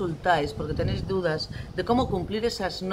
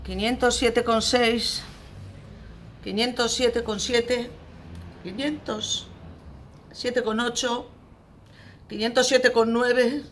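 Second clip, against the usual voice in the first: slow, higher-pitched decimal counting; endless countdown; 5 semitones higher, slower than usual. Acted. Parent counting with decimals until room is tidy, drawn-out. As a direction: stretch every number to stall the threat.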